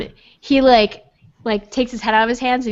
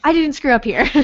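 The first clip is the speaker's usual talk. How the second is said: mildly panicked, higher-pitched denial; light acted panic; freaking out; 5 semitones higher than usual. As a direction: protest your innocence, a little flustered. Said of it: "freaking out about, like".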